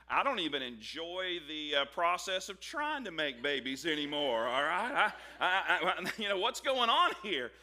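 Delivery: laughing through a mock complaint; Sarah, laughing. Preacher voicing Sarah's amused complaint, laughing. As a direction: giggle through it, amused disbelief. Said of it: "You know what she's saying?".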